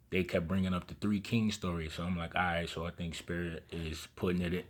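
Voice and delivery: talking through a retainer; wearing a retainer. Real, not acted. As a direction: speak around a retainer in the mouth. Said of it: "And I got my retainers in, so excuse me".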